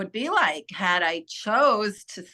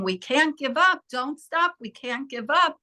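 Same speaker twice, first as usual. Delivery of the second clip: retold frantic yell; 4 semitones higher than usual. Dentist shouting during CPR, mild mock yell. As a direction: pitch it up like a panicking man pleading. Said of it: "he was screaming".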